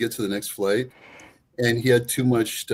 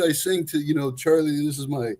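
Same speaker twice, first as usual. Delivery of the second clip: higher, proud storytelling voice; a father bragging about his love story; boastful dad; 4 semitones higher, 4 dB louder than usual. Retold or imitated. Dad telling stranger how he won his wife, higher. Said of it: "He said".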